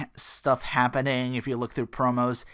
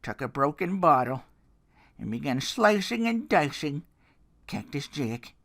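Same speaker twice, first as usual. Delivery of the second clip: a lightly voiced dramatic wrestling promo; hint of a gravel-free Foley promo; Mick Foley impression; 4 dB louder than usual. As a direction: tell it like a haunted veteran, building. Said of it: "my Mick Foley is already not that good".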